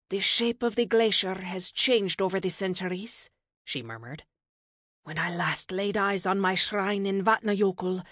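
a hint of a stately goddess, reflective; lightly voiced goddess, rueful. Goddess recalling her shrine in the glacier, rueful.

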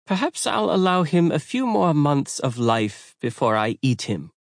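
deliberate menace. A narrator's reading. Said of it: "added with deliberate menace".

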